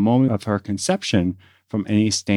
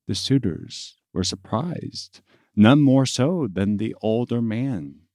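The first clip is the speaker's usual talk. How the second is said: measured storyteller with long pauses; unhurried, deliberate legend telling; story narration; 3 semitones higher than usual. A narrator's reading. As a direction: narrate it like an old legend, phrase by phrase.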